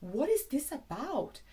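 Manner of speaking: rising mock-shocked question; shocked disbelief. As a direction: sound scandalised by the show. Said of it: "You're like".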